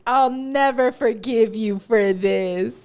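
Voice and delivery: slow mock-dramatic grudge; milk it like a soap opera villain. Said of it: "all dramatic".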